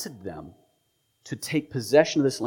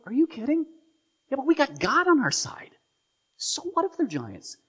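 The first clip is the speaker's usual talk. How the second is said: bold spies. Retold or imitated. Joshua and Caleb retort.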